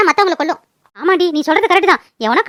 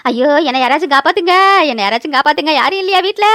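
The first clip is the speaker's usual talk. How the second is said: panicked wail in a lower register; crying for help; 4 semitones lower than usual. Acted. Aunt alone in the house, wailing for rescue. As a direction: plead for anyone to rescue you. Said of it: "காப்பாத்துங்க காப்பாத்துங்கன்னு கத்துறா".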